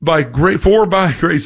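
tripping over words with excitement; so eager the words snag and restart; real flustered excitement, stammering on the start of a quote; excited stumbling. Real, not acted. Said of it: "getting so excited I can't even talk".

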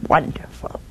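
sarcastic. Acted. Mother ending the apology exchange.

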